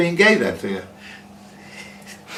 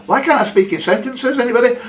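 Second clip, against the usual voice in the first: exasperated at himself; 10 semitones higher, faster than usual. Real, not acted. Host stumbling over his words.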